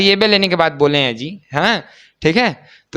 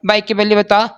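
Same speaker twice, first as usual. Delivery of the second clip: lightly voiced teacher quote, pitched up; teacher's demand; 5 semitones higher than usual. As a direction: lightly mimic a teacher calling out questions. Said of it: "हमारे teacher क्या बोलते हैं". (शिक्षक की हल्की नकल, ऊँचे सुर में)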